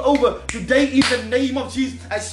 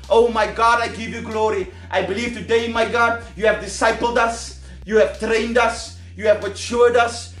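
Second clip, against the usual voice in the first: prayer; 3 semitones lower than usual. Acted. Closing prayer to God.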